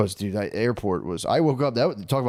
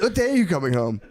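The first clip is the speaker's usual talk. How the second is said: high put-on kiddie voice; mock high-pitched pleading; needy child caller; 8 semitones higher, 3 dB louder than usual. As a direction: mimic a kid missing someone. Mocks needy friend calling like child.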